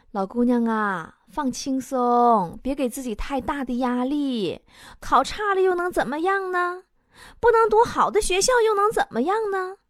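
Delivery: 像哄孩子一样慢慢地柔声说; 温柔的爸爸. Retold or imitated. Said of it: "特别温柔跟我说". (模仿爸爸慢悠悠、温柔地安慰)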